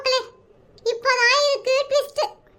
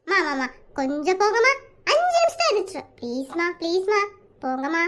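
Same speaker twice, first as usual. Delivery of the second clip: sleepy whine; 6 semitones lower than usual. Acted. Sleepy son begs mother.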